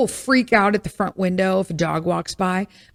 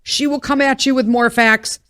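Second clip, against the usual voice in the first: building rant; 3 semitones higher than usual. Real, not acted. Praising the YouTuber who answers with facts, building excitedly. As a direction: pile the facts on faster. Mock-ranting admiration.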